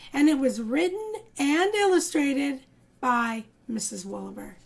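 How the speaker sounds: put-on lively read-aloud voice for children; storybook narrator; story narration. A narrator's reading. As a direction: tell it like a picture book to little ones. Reads picture book to kids.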